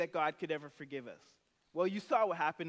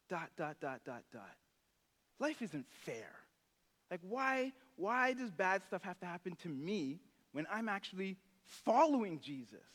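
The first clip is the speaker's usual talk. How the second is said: half-hearted moping about unfairness; mild self-pity. Retold or imitated. Complaining believer voiced.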